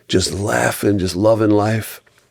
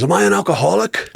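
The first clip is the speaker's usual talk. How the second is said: put-on higher, innocent child question; little kid voice; 11 semitones higher, faster than usual. Son asking dad at a meeting, high innocent child voice. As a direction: play the curious little boy.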